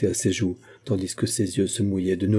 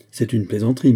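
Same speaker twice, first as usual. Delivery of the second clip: harsh words; 5 dB louder than usual. Acted. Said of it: "elle éclata en paroles dures".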